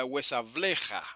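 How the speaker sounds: huesableja stressed on "ble"; slow down and lean on "ble" in huesableja; penultimate stress. Shown as a demonstration. Teacher showing the accent shift, stress on penultimate syllable. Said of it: "ahí el acento cambia".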